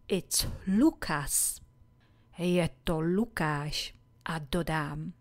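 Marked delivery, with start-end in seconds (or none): 0.1-1.6 slow model answer. Shown as a demonstration. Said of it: "A já odpovím".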